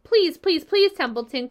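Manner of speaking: high, loud repeated please; a pig pleading with the rat; begging. A narrator's reading. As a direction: plead harder with each please.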